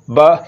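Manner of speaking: "बा" cut short with a jolt; abrupt, jolted "बा"; with a jerk. Shown as a demonstration. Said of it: "ये गलत है".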